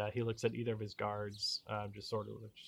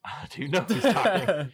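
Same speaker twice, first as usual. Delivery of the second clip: pompous baron voice; 9 semitones higher, 13 dB louder than usual. Acted. Baron mocks the line.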